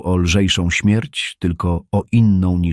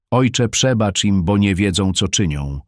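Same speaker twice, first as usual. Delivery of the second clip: mild loud call. Acted. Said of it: "zaś Piotr zawołał donośnym głosem".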